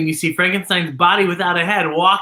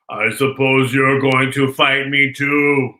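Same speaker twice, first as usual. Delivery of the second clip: low, slow, timid monster voice; a frightened little monster pleading; scared and sad; 5 semitones lower, slower than usual. Acted. Frankenstein's monster asking Posy, scared and sad. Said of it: "sounded scared and sad".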